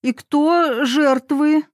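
suddenly anxious who got hurt; alarmed. A narrator's reading. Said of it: "встревожилась мамуля".

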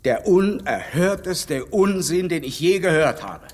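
laut und langsam, empört über den Unsinn; empörter Ausruf. Acted. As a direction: jedes Wort entrüstet betonen, höher und lauter. Heftiger Streit über Harriet. (empört und laut)

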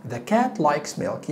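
each word drawn out very slowly; very slow model. Shown as a demonstration. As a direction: spell the sentence out slowly for learners. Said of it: "teacher models sentence very slowly".

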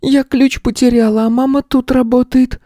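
put-on very high small child's voice; a lost girl explaining earnestly; little girl voice. A narrator's reading. Girl tells the teacher why she came.

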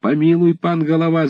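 высокий умоляющий вскрик; взмолиться, кланяясь в ноги; мольба. Acted. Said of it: "закричали некоторые". (десятские умоляюще кричат, кланяясь голове)

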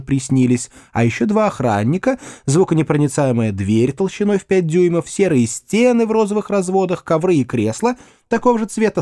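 чуть выше, с лёгкой насмешкой; перечисляй с издёвкой; ироничный Гудвин. Acted. (насмешливый рассказ сыщика)

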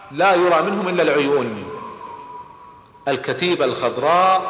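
ordinary delivery

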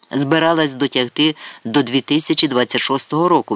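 ordinary delivery, nothing marked

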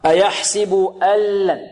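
slow recitation, "أن لم" said as allam; pure lam merger. Shown as a demonstration. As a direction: drop the n of "أن لم" into a doubled l. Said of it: "تنقلب تماما إلى لام خالصة". ("أن لم" بلام خالصة دون غنة)

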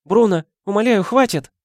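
high, frightened plea; pleading. Acted. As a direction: beg him to stop. Wife begs husband stop.

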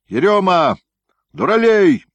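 high, very loud bellow at full throat; frenzied shout. Acted. Gryaznoy bellows for his groom Yeryoma at the top of his lungs. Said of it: "исступлённо во всё горло крикнул Грязной".

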